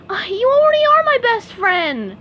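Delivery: SpongeBob voice. A narrator's reading. SpongeBob answering Patrick.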